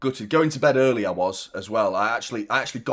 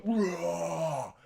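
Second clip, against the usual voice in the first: mock roar; 8 semitones higher, 5 dB quieter than usual. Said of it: "I'll go".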